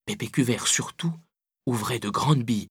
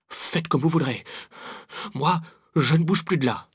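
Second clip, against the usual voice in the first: higher-pitched sulky refusal; grumbling; 5 semitones higher than usual. A narrator's reading. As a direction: grumble stubbornly, with pauses. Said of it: "ronchonna Pépé".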